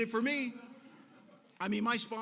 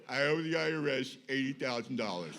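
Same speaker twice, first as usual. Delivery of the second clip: laughing confession; 6 semitones lower, 4 dB louder than usual. Retold or imitated. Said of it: "I go".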